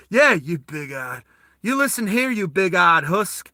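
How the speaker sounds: slow Southern drawl; Southern accent. Acted. The speaker's character warns the Russian, slow Southern accent. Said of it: "he's got a real Southern accent".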